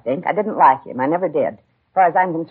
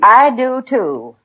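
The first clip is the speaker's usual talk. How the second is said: indignant snap; 8 semitones higher, 5 dB louder, much slower than usual. Acted. Mother snaps back defiantly.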